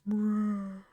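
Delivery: short mock grunt; questioning grunt. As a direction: grunt it out as a creature.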